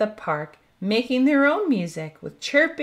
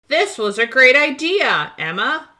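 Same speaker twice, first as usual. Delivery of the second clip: louder, raised and cheerful praise; happy; 3 semitones higher, 5 dB louder than usual. Acted. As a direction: beam with joy as you say it. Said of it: "Lucky says happily".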